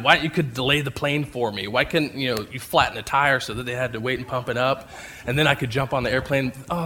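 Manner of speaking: mock entitled prayer. Mock prayer demanding God delay plane.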